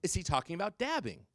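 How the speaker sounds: imitated kid spelling out the question. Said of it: "Speak slower".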